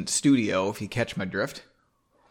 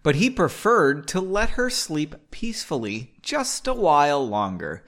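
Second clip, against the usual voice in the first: story narration; 2 semitones higher than usual. A narrator's reading. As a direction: draw out the phrases as you narrate. Reads the novel aloud.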